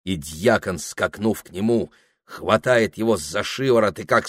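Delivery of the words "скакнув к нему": usual speaking voice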